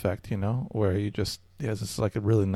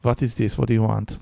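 put-on German accent; 4 dB louder, faster than usual. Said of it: "I'm sorry in advance for my German accent".

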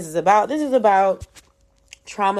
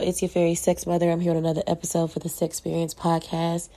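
nasal, blocked-nose voice; talking through a stuffy cold; 5 dB quieter than usual. Real, not acted. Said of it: "If I sound a little stuffy or nasally".

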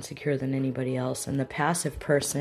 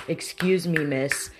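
mildly acted rude call for attention; mock rude customer; aggressive diner; 2 semitones higher, 3 dB louder, slower than usual. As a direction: call the server over rudely, hey punched. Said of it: "you would yell at the server".

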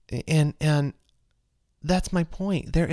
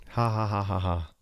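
dry, fake "ha ha ha"; evenly spaced put-on laugh; mock laugh; 5 semitones lower, 3 dB quieter than usual. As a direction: imitate someone laughing at his own joke. Mock laugh after retold joke.

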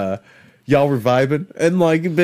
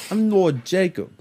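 mock Jewish accent on a character name; put-on Jewish accent; 3 semitones higher, 3 dB quieter than usual. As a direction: play it with a light Jewish accent. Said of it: "Are you giving him a Jewish accent?".

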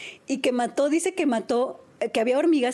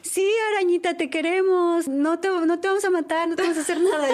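calling out; 5 semitones higher than usual. Retold or imitated. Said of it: "yo empecé a gritar con ella".

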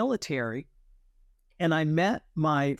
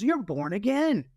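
higher, slow retold exasperation; exasperated; 5 semitones higher than usual. Flight commander finally giving his verdict, mildly exasperated. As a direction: spell it out slowly, pitched up. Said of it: "exasperated, he sat back".

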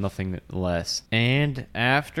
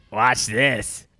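mimicked player voice; 4 dB louder than usual. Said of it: "I'm gonna mimic your voice for you".

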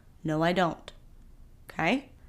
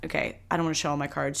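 mock self-quote; 5 semitones lower, 7 dB quieter, faster than usual. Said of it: "she says after she tells you".

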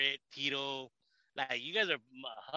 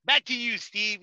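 anchor sign-off; 3 semitones higher, 3 dB louder, slower than usual. Pretend. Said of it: "I'm like".

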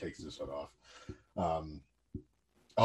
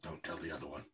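whispering; 5 semitones lower, 18 dB quieter, faster than usual. Acted. Conspiratorial aside.

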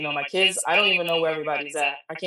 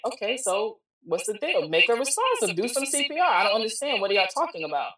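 higher-pitched mock disbelief; baffled demand; 5 semitones higher than usual. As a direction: retell an incredulous demand for sense, pitch lifted. Retold baffled demand on phone.

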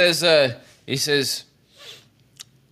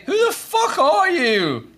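very high, drawn-out yell; yelled heckle; 13 semitones higher, slower than usual. Acted. Heckler at the back challenging the newcomer, yelling. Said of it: "somebody just yell from the back".

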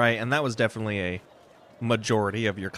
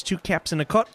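folksy vendor pricing; 5 semitones higher than usual. Acted. Vendor quotes his price.

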